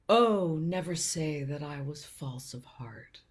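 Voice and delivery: drawn-out "Oh" launching a mock-grand retort; father's quoted reply. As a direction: imitate dad lightly declaiming Shakespeare as a comeback. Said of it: "his response would often be".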